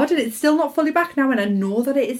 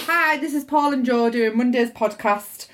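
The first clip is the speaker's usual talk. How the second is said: serious. Shown as a demonstration. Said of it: "I sound real serious there".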